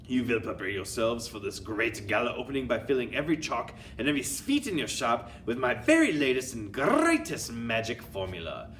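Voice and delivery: commanding witch with a put-on accent. Grand High Witch speaks.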